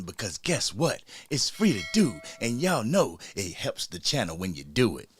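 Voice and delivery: channel intro spiel. Acted. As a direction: roll out a practiced YouTube intro.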